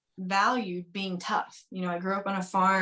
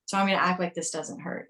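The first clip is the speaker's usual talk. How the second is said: mock tough act. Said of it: "instead of being like".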